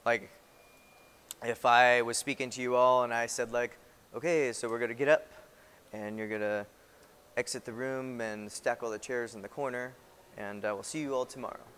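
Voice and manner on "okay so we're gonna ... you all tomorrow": low, quiet, casual instructions; laid-back and unhurried, voice dropping away; lackadaisical. Shown as a demonstration. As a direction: give the order in an easygoing, laissez-faire way. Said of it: "just in a very natural, slow, lackadaisical".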